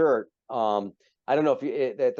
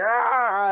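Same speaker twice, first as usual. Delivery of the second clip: mock drunken cheer; 11 semitones higher, 4 dB louder than usual. Drunk Klingons cheering in hot tub.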